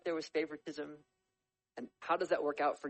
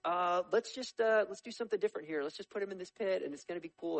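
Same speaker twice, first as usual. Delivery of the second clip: higher-pitched, improvised stalling; hedging older brother; 4 semitones higher than usual. Acted. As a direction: act out talking the others round, casually. Reuben stalls his murderous brothers.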